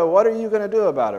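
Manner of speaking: high, rushed demand to a parent; child wanting justice right now. Acted. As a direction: press the parent for action, quick and high. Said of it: "And looks at you".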